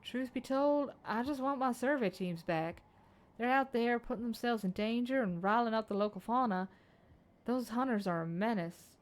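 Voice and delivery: put-on lightly accented young surveyor, eager; a keen chief surveyor's accent; Utopia's accent. Utopia cheering on the plan, accented. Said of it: "Utopia's speech pattern just matched that accent".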